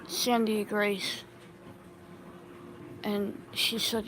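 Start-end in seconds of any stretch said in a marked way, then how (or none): 0.1-1.2 slow, drawn-out use of her full name; grave, deliberate naming of a friend; serious name call. Retold or imitated. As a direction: say her full name slowly so she knows it's bad. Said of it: "I would never say her name like that".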